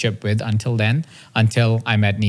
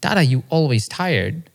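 slow, slightly raised questioning voice; hint of a little kid, drawn out; lightly imitated toddler son; 4 semitones higher than usual. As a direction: repeat the child's question slowly, letting it land. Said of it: "He said".

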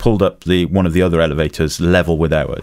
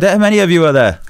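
high, louder official voice; announcer voice; 11 semitones higher, 4 dB louder than usual. Retold or imitated. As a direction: speaker voice. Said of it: "And he goes".

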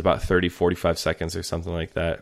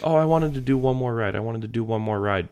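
put-on complaining kids; 4 semitones higher than usual. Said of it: "they were all kinda complaining".

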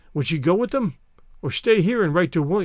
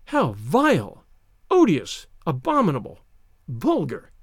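muttered disgust. Acted. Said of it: "muttered Isabel".

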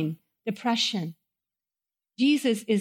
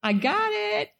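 boastful preacher; 2 semitones higher than usual. Pretend. Pastor mocking an arrogant preacher to the chapel, smug boast. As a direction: play the arrogant preacher bragging to the congregation. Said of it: "it's like me saying to you".

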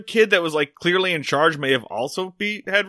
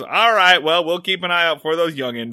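patronizing. Retold or imitated. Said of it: "in his kind of patronizing way".

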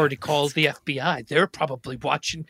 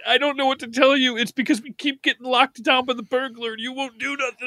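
whiny pleading; 6 semitones higher than usual. Acted. Husband pleads, high voice.

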